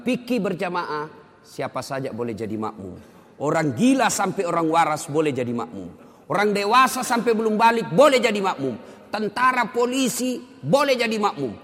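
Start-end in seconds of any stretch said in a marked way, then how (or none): 3.4-11.5 high, loud sermon delivery, building in pitch; forceful preaching. Real, not acted. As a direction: drive each category home like a preacher.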